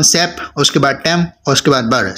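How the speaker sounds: सेप, टेम, बर each set apart as its own beat; syllable by syllable. Shown as a demonstration. Teacher counting three syllables for students, सेप, टेम, बर said separately. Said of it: "three syllable हैं".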